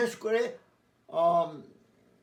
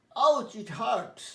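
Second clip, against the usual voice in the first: mock pain; 3 semitones higher, much slower than usual. Shown as a demonstration. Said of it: "পড়ে গিয়ে হয়তো ছোট খেয়েছো".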